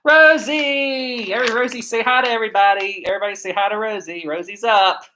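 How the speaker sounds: high, bright calling to the dog; excited dog greeting. Real, not acted. Owner greeting his dog Rosie, high excited pet voice.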